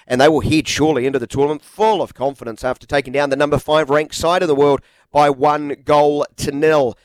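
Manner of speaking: brisk radio headline read; steady broadcast news voice; sports news read. Acted. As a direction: read the sports bulletin like a newsreader.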